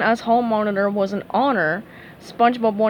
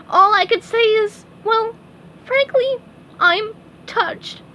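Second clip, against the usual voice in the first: touched; 12 semitones higher, 4 dB louder than usual. A narrator's reading. Tearful grand speech.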